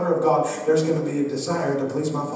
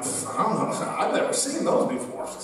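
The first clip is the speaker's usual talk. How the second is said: innocent act; 4 semitones higher, 5 dB quieter than usual. Retold or imitated. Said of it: "And I'm like".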